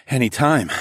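winded, panted reply; panting. A narrator's reading. Narrator spent beside his lover, panting. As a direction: catch your breath, then answer. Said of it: "I panted".

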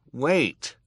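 high, loud interruption; urgent boy. A narrator's reading. Klaus stopping the villain typing, high urgent call. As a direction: cut in quickly to stop him.

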